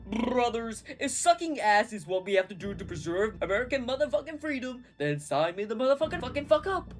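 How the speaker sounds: high, loud patriotic yell; rally them like a war cry; rousing yell. Acted. George Washington yelling to rally the brothers. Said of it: "yelled Washington".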